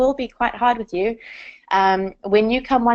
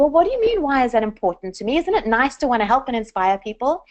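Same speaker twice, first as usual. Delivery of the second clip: cross and defensive; 5 semitones higher than usual. Retold or imitated. Defending her answer to her coach, indignant. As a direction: pitch jumps high on what do you mean, then indignant. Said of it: "I'd get really cross about it".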